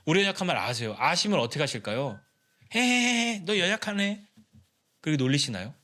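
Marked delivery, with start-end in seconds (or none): 2.7-4.2 high teasing snicker; mocking giggle. Preacher voicing a mocking God, teasing giggle. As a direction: tease the weak one with a laugh.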